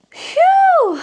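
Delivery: a sharp high exhale of effort; high phew. Real, not acted. Vlogger lifting a heavy turbo, high exhale. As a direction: blow it out high after the lift.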